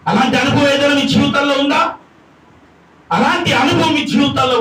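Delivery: driving, sustained sermon delivery; full-force preaching. Acted. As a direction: press the congregation with one long question.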